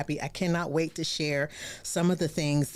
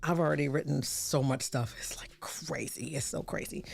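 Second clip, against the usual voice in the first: breathy unvoiced whisper, much softer; 2 semitones lower, 6 dB quieter than usual. Real, not acted. Host confiding how much she has written, whisper. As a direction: whisper it like a secret aside.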